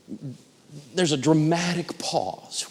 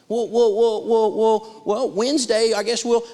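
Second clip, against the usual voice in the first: higher, louder stammering climb-down; flustered collector; 6 semitones higher, 5 dB louder than usual. Retold or imitated. Collector caught off script by a debtor, mock flustered stammer. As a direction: imitate a caller thrown off script, sputtering.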